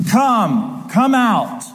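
drawn-out, falling call of a living creature; voice like thunder. Acted. Living creature summons the horseman, voice like thunder. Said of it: "in a voice like thunder".

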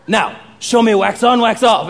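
lightly voiced sensei command; Mister Miyagi. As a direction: give the pupil a firm order. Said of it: "Mister Miyagi's like".

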